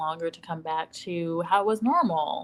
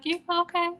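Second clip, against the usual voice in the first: mock concern; 11 semitones higher than usual. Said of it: "you're like".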